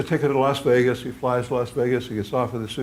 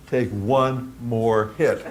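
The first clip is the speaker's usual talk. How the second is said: booming God voice; much slower than usual. Retold or imitated.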